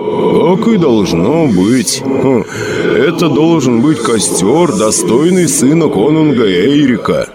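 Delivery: calm and measured, from beyond; slow ghostly friend. Acted. Dead Bjorn answers Sedjin, slow and calm.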